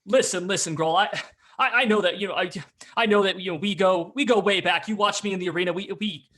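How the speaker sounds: slightly slurring Baldur. Acted. Drunk Baldur cutting in to plead with Grohl, loud, slightly slurred. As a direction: plead insistently, loud and a little tipsy. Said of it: "slurring his words a little bit".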